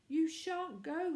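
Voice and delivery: high, loud, slow pleading; frightened plea. A narrator's reading. Vicar's wife begging her husband not to go, frightened. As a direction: hold him back, scared.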